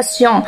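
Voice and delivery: سيان with a French "on" ending; overheard pronunciation variant. Retold or imitated. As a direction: say سيان as "syon", rounded nasal vowel. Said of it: "سمعتها تنطقها سيان".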